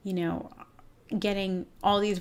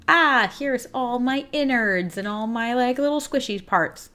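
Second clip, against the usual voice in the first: mock exposed; 5 semitones higher, 6 dB louder than usual. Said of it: "you're like".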